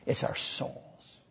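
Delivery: hushed whisper, slow. Real, not acted. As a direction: reveal it like a secret. Answer to rhetorical question.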